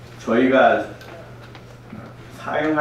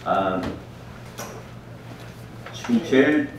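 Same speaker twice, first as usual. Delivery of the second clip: Korean American accent; 4 dB quieter than usual. Real, not acted. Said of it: "제가 한국말 좀 서툴 수 있으니까".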